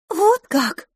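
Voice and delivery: очень высокое весёлое восклицание; улыбнуться в голосе; с улыбкой. A narrator's reading. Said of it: "улыбнулась мисс Лафос". (весело, с улыбкой)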